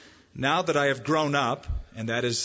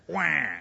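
mock baby wail. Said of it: "When I was wet".

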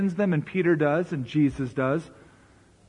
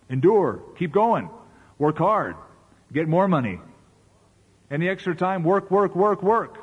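punchy, rising push to keep at it; mock driving urgency; 3 semitones higher, 3 dB louder than usual. Preacher mimicking the driven American way, mock urgent. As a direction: mimic a relentless taskmaster in short bursts.

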